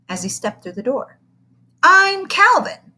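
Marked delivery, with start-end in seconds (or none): 1.8-2.9 put-on slow, higher boy's voice; a lightly voiced shy fourth grader; boy introduces himself. Boy introduces himself to kindergarten, lightly voiced. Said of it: "said Calvin".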